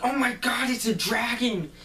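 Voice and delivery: very high, loud mock panic; hammed-up cry of terror; panicked shout. Workers attacked by Elliot, panicked shout.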